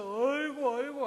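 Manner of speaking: high keening mock lament; demonstrated wailing. Shown as a demonstration. Preacher acting out Mary's bitter weeping, demonstrated wailing. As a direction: act out wailing, high and drawn out. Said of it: "대성통곡이에요".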